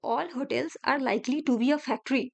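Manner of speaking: each word drawn out slowly; slow teacher dictation of a statement. Shown as a demonstration. Rereads conclusion.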